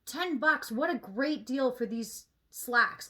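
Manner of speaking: loud, impressed wow at a bargain; mock thrilled shopper's thought; imagined delight. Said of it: "I don't even think to myself".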